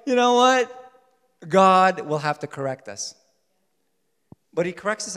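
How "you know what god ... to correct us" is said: loud and friendly, through a smile. Acted. Preacher softening a warning of correction, smiling. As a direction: deliver the correction with an audible smile. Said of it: "he said it with a smile".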